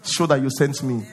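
low, soft begging prayer; a hammed-up pitiful plea, low and soft; mock embarrassed plea. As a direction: beg God like a failure.

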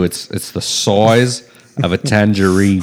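slowed, jokey Aussie vowels on "size"; lightly voiced Aussie tourist; mock Australian accent. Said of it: "You can't go Michael Caine on me".

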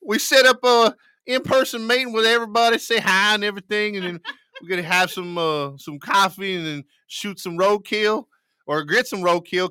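lightly voiced dim-witted police chief; moron police chief. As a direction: play a bumbling police chief planning a get-together. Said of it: "can we get the moron police chief's impersonation?".

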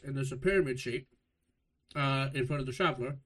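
talking while chewing food; mouth full. Real, not acted. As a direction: speak around a mouthful. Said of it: "Love when you read while you eat".

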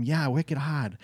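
lightly put-on New England accent. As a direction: toss in a local New England twang. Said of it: "New England coast where I'm from".

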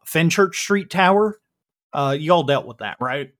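folksy Texan, lightly put on; casual Texas twang, halting with uh's; Dan, Texas accent. Dan gives the group the lowdown, light Texas accent. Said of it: "I'm doing my best yeehaw here".

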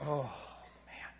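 mock-mild "oh, man"; soft little sigh of disappointment; soft, subdued sigh. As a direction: play it meek and resigned, barely voiced. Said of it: "sounds like Jesus is just sort of crossing his arms and going".

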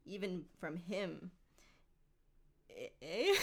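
understated theatrical creature with a Canadian-style "eh"; lightly voiced Canadian Gollum. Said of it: "Why is he Canadian?".

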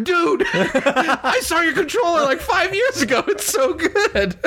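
high, slow, laughing through the words; excited drunk friend. Retold or imitated. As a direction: gush it like a tipsy fan on the phone. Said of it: "he called me from a bar and he's like".

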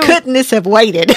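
laughing while teasing a friend about bad timing; laughing tease. Real, not acted. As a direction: tease her through a laugh.

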